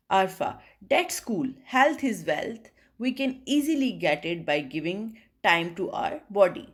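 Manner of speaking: slow, clearly spaced reading of both parts; dialogue read-aloud. Acted. Teacher reading Arfa and Alina's morning-walk dialogue, slow and clear. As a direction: read both girls' lines slowly for the class to copy.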